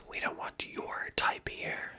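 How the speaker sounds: "your" leaned on in a slow whisper, "type" left light; whispered stress on "your". Shown as a demonstration. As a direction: push "your", not "type". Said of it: "I put the emphasis on your instead of type".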